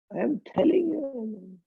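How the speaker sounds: high, rushed indignant insistence; acted angry insistence. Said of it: "He'll say that with angry gesture".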